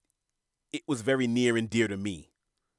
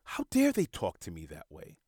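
indignant ego voice; 3 semitones higher than usual. Retold or imitated. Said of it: "Your ego is what says".

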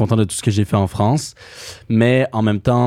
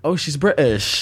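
slow, higher-pitched mock discovery; re-enacted mild surprise, pitched up; imitated realization; 4 semitones higher, slower than usual. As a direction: act out the penny dropping, drawn out. Re-enacts realizing a singer is British.

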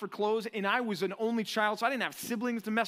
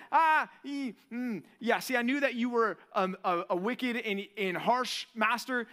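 nervous servant. Retold or imitated. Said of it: "he's like".

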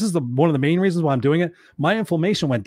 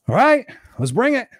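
eager mock acceptance; 8 semitones higher than usual. Mock eager reply to universe.

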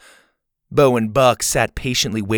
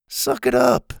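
higher, mocking jab; cruel. A narrator's reading. Ash taunting Zeta, mild sneer. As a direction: sneer it at her. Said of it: "he said cruelly".

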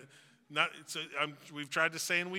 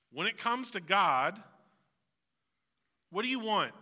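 reflective question; 6 semitones higher, 6 dB louder than usual. Real, not acted. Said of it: "a reflective question".

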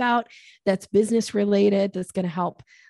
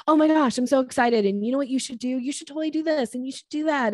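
overeager gushing; 6 semitones higher, faster than usual. Shown as a demonstration. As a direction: gush like a puppy greeting someone. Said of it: "dog calling energy".

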